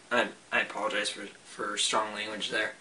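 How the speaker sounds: hushed sorry aside; sheepish apology. Real, not acted. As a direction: drop the voice, a little embarrassed at the swearing. Sheepish apology after cursing.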